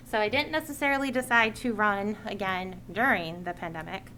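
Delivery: measured read-out public statement; prepared speech. Real, not acted. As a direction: deliver a written address to the committee. Reads a prepared committee speech.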